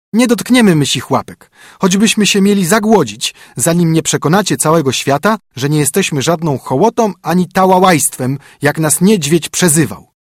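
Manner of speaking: high, loud, defiant little birds; baby wrens protesting to their parents, high and insistent; stubborn chicks. A narrator's reading. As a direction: dig in and refuse like sulking children. Chicks refuse food, protesting.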